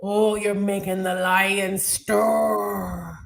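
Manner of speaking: slow, drawn-out put-on Irish accent. Teasing co-host about the lion stirring, mock Irish accent. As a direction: lay on a playful Irish lilt, slowly. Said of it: "Give us more of that Irish".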